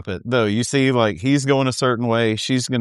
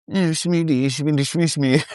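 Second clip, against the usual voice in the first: put-on cutesy baby talk; 3 semitones higher than usual. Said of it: "I hate it worse when you do it".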